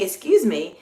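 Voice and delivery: "Excuse me" with a very slight lift; courteous little lift on "Excuse me"; polite inflection. Shown as a demonstration. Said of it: "it sounds more polite".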